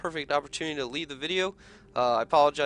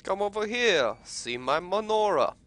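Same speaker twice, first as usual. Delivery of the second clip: mock crime-boss voice, higher and drawn out; mimicking game character; 6 semitones higher, 4 dB louder than usual. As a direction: lampoon the game character, pitched up and slower. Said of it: "Why does he sound so space Jewish".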